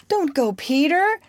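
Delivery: high, urgent plea; entreating. A narrator's reading. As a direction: beg him to stay. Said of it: "she entreated".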